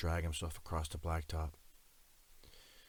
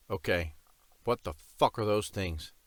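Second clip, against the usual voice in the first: louder and higher, panicked outburst; 4 semitones higher, 6 dB louder than usual. A narrator's reading. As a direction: blurt it out in rising panic. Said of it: "the panicked tone of my voice".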